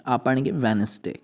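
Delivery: वेडनेसडे said as wenzday, d silent. Shown as a demonstration. Teacher modelling the word for learners, d left silent. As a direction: say वेडनेसडे with no d sound, wenz-day. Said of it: "डी इसमें silent है".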